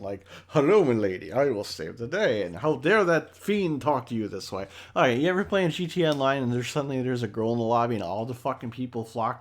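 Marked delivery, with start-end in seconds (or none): 0.5-4.7 mock gallant knight. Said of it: "like, all gallant".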